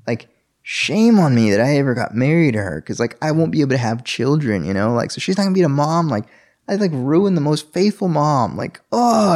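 spiral into guilty panic as he recalls it; anxious inner voice. Retold or imitated. New husband reliving his fear of no children, anxious and high.

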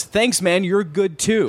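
lightly mocked, chirpy compliment back; awkward reply. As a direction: imitate your own dumbstruck politeness. Retold blank-minded awkward reply.

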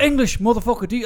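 high, loud mock tough-guy demand; Samuel L. Jackson. Friend demanding English, a hammed-up Samuel L. Jackson bark. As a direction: bark it like a movie hardman, hammed up. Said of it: "Samuel L".

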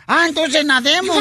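eager husband. Acted. Husband answers his angry wife, eagerly obliging. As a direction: pounce on it as the joke husband. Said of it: "llega el marido y le dice".

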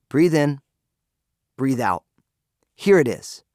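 steady, unhurried audiobook narration with gentle pauses; audiobook reading. Acted. Author reading his own audiobook aloud to listeners, calm and guiding. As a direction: read it to the listener like a calm guide.

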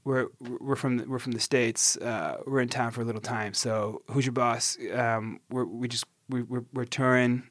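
lightly put-on American accent, casual. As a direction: play a laid-back touring act from the States, American accent. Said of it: "the characters we were playing now was like".

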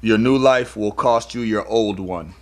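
slow, deliberate quote reading; quote delivery. Shown as a demonstration. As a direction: deliver the quote slowly and weightily. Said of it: "hear it one more time with that quote".

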